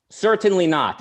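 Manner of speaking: mock Russian-accented retort, pitch falling away; Ayn Rand's accent. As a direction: refuse firmly in an imitated Russian accent. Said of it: "I don't mean to mock her accent".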